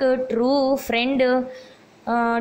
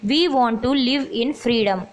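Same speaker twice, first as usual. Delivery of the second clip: slow dictation; much slower than usual. Shown as a demonstration. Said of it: "dictating the answer sentence".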